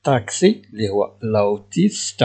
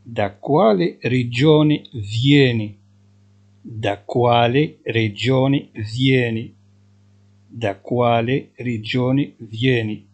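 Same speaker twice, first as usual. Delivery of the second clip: each syllable drawn out, slowly; slow dictation; much slower than usual. Shown as a demonstration. Teacher to Moroccan students, slowly dictating Italian. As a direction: spell it out slowly for learners. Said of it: "teacher dictating driver question".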